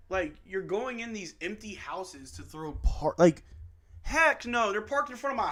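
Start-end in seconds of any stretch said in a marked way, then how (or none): none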